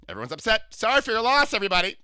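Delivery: high, loud, sing-song camp voice; imitating a flamboyant older man. To a stranger on the subway, gushing camp impression. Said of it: "I imitate people".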